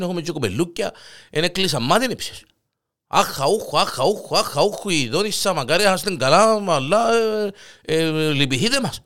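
high, plaintive begging voice; whiny pleading neighbour. Acted. (παρακλητικός, κλαψιάρικος γείτονας)

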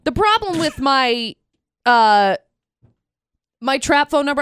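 talking through hiccups; words broken by hiccups. Real, not acted. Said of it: "I have the hiccups right now".

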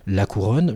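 La Couronne said the French way; French pronunciation. Shown as a demonstration. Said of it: "je vais le dire à la française".

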